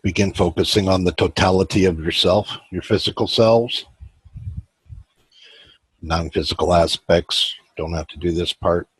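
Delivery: measured meditation guide, long pauses between phrases; even, unhurried meditation voice; guided meditation. Acted. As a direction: guide listeners inward, leaving space after each phrase.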